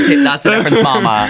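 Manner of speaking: high teasing squeal on difference; teasing him in a high mock voice. Friend teasing her co-host, high mock voice.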